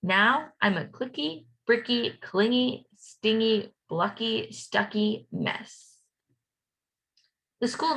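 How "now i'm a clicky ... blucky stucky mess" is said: bouncy chant, slowing on the last words; sing-song refrain. A narrator's reading. Teacher reading a refrain to kids, sing-song. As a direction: read the rhyme with a beat, stretching the end.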